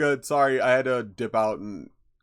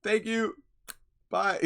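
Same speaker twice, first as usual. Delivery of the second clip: much higher chirpy bot sign-off; a hint of a cheery scam bot saying goodbye; robot goodbye; 10 semitones higher, slower than usual. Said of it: "And it's like".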